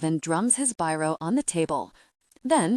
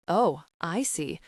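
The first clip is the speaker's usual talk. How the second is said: sarcastic. Acted. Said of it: "His voice glints with sarcasm".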